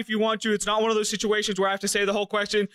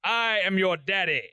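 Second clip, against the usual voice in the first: mock villain quote; 3 semitones lower than usual. Joke option in villain cadence.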